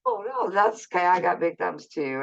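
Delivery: bright high sweet stranger's voice on "Oh no"; friendly stranger. Retold or imitated. Stranger reassuring her about the friend request, high sweet reply. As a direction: chirp it like a nice stranger.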